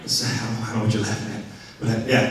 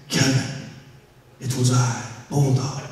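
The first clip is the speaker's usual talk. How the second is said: talking cat voice; 3 semitones lower, 7 dB quieter than usual. Retold or imitated. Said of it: "I hear this voice say".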